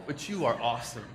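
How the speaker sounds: gentle, lightly sincere lines for the crowd to copy; sincere affirmation. Shown as a demonstration. Leading the crowd in repeat-after-me, lightly sincere and warm. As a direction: say it like you mean it to their face. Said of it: "I say it, you repeat it".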